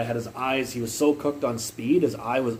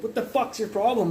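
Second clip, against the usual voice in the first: high-pitched mock outrage; retold anger; 9 semitones higher than usual. Junkie fed up with being taunted, getting really mad. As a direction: voice an offended man, pitched way up. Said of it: "he's getting really mad".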